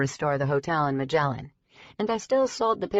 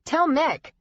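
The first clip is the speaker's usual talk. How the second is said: higher, louder shout over the wind; 10 semitones higher, 3 dB louder than usual. Acted. Rider shouting to the mirror over the wind. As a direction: yell it over roaring wind. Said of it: "I shouted".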